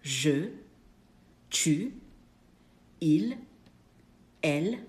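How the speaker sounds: each pronoun spaced out with pauses, je, tu, il, elle, on, nous, vous; French pronouns modelled. Shown as a demonstration. Teacher models each French pronoun to the class. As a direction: list them one by one for learners to repeat. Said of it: "Our personal pronouns are".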